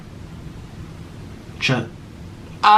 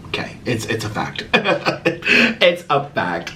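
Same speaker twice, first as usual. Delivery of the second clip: laughing. Real, not acted. Laughing aside, unvoiced.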